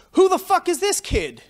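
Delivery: imitating the angry vendor's yell; mock outraged shout. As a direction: blurt it like a vendor who just got insulted.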